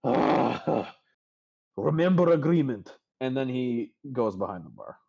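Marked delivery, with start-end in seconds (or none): 0.0-2.9 louder whiny broken-English plea; pleading barkeep. Acted. Durnan reminding Bonnie of their deal, whiny plea. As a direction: remind her of the deal, whining.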